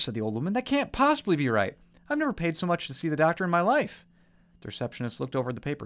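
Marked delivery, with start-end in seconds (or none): 0.5-4.0 put-on high, indignant old lady; indignant protest. Widow argues with receptionist, high indignation. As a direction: protest the bill, higher and outraged.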